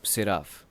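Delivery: سیراف said ending in a clear f sound. Shown as a demonstration. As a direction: say سیراف as see-raaf with a crisp final f. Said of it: "یہ ایف کی sound دے گا". (سیراف کا آخری حرف صاف ایف کی آواز میں)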